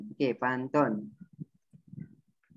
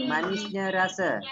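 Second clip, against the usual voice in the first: pantun recitation; 3 semitones higher than usual. Shown as a demonstration. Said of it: "rangkap yang kedua".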